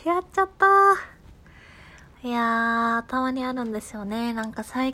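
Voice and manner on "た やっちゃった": playful dismay. Real, not acted. Host owning up to a botched greeting, playful dismay. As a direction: cry out over your own slip, stretching the end. Laughing at own greeting slip.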